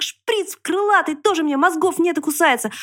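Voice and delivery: high, slow piglet outburst; high-pitched piglet indignation; indignant yelling. A narrator's reading. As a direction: scold the mosquito in a high, outraged voice. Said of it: "завопил поросёнок".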